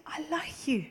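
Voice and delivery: soft, intimate whispered quote; tender whisper. Retold or imitated. God telling the preacher the simplest things, tender whisper. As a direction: whisper it as a gentle confidence.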